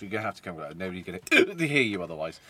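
hiccuping mid-sentence; words broken by a hiccup; suppressing hiccups. Real, not acted. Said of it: "I can't stop hiccuping".

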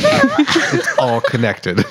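drawn-out, laughing conspiracy parody. Pretend. Friend joining the numerology bit, slow conspiracy voice. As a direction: stretch it out slowly, half laughing. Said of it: "slipped into the conspiracy voice".

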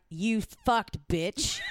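slow, shouted insult; mock angry shout. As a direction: spit it out slow and mean. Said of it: "I'd write back".

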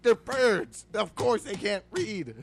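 loud, high, disbelieving outburst; can't believe what he's hearing; incredulous rant. Real, not acted. Podcaster ranting at hotel owner, loud and incredulous. Exasperated repeat.

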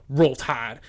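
imitated Southern drawl, incredulous; mock New Orleans drawl. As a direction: echo it like an offended Southern driver. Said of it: "The Southern drawl was just out".

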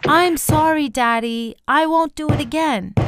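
high-pitched, acted child's plea; narrated crying apology, pitch held up. A narrator's reading. Joey begs his father from the locked closet, acted crying. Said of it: "banging the door and crying".

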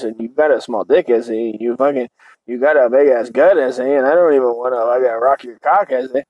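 lightly imitated Chicano lilt; a touch of mock Chicano scorn; mock Chicano accent. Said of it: "she starts talking like this".

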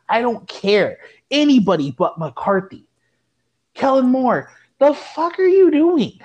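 high, loud yelling at the coach; furious rant. Real, not acted. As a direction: demand a new coach, furious. Fan raging at coach.

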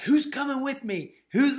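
high, loud rallying cry; rallying call. Retold or imitated. Friend calling everyone into the river, high and loud. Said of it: "he's like".

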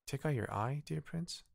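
rising in disbelief, dear prince pitched high; a hint of alarmed surprise from the small bird; shocked question. A narrator's reading.

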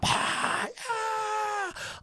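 soft breathy bleacher roar; imitated crowd noise. Bleachers behind the comic, imitated crowd noise. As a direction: exhale a far-off crowd going wild. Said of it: "You can hear 'em stomping".

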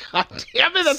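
real loud laughing outcry; loud outburst. Real, not acted. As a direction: blurt it out in laughing disbelief. Reacting loudly to the joke.

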